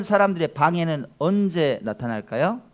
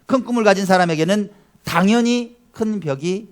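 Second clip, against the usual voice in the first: quotation reading; 4 semitones higher, 6 dB louder than usual. Shown as a demonstration. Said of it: "이런 말을 했습니다".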